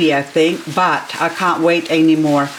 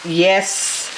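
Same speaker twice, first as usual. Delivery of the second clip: usual speaking voice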